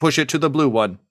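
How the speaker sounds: lightly voiced robot urging Push; robot Brandy. Robot Brandy tells Declan which cable, lightly voiced robot. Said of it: "twitches and says".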